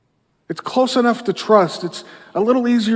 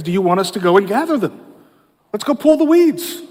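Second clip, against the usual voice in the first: eager servants; 3 semitones higher than usual. Acted. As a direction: rush to volunteer, keen to act. Eager servants urging the master.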